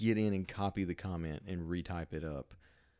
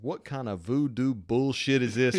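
louder, slow, outraged quote; mock scandalized yell; loud mock outrage; 4 semitones higher, 9 dB louder than usual. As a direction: bellow the fan's outrage. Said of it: "something along the lines of".

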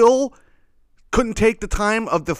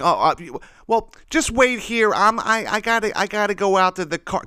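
mock flustered customer; 7 semitones higher than usual. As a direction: play the scatterbrained shopper stalling. Retold customer excuse.

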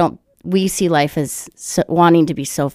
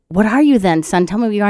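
lightly acted mom pressing for an answer; higher-voiced coaxing mom; voiced mother; 4 semitones higher, faster than usual. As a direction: press him like a mother, pitched up. Voicing mother pressing her son.

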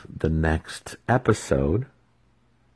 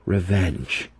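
sneering. Acted. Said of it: "Alton sneered".

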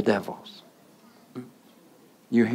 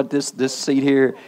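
laughing. Real, not acted. Teasing the congregation about seating.

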